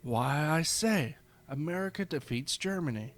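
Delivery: put-on a Victorian Englishman chuckling over his book in English accent; thick English accent. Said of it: "laughing in a thick English accent".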